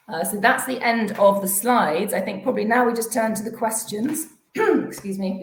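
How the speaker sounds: hoarse, strained voice; losing voice. Real, not acted. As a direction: voice giving out, clearing throat. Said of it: "losing my voice".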